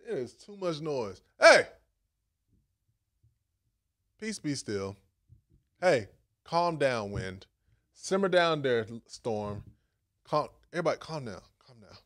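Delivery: calm command. Retold or imitated. Jesus calming the storm.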